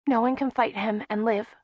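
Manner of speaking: a pained prophecy. A narrator's reading. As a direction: force the words out through pain. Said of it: "she said painfully".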